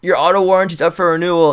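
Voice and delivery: mock a pushy telemarketer; hammed-up spammer reading his script; spamming cold caller. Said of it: "this guy spamming who's like".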